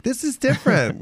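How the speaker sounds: high-pitched imitation of puzzled fans. Ugly Betty fans reacting to seeing Hamlet, mock puzzlement. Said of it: "they would be like".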